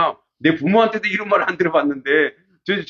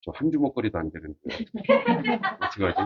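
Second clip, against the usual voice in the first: softer, muttered to himself; inner worry; 5 dB quieter than usual. Retold or imitated. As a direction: think it quietly, worried. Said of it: "야, 속으로".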